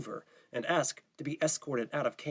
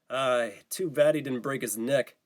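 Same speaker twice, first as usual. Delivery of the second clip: scoffing; 3 dB louder, slower than usual. Acted. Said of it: "Javier scoffed".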